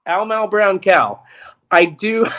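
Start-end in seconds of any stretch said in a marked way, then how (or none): 0.1-1.2 slow calming phrase. Real, not acted. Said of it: "collect myself here".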